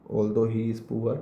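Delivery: although he is poor drawn out word by word, slow; slow dictation. Shown as a demonstration. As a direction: spell it out slowly for the class to copy. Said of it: "repeated slowly for dictation".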